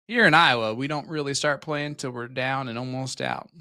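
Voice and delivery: light hint of Iowa twang, punchy loud start; mock Iowa accent. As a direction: read the fan comment in a faked Iowa twang. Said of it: "I did the accent myself".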